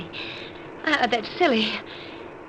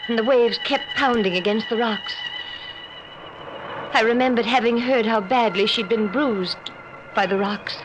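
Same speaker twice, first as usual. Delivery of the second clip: inner narration. A narrator's reading. Wife lying awake recalling the drowned first wife, hushed.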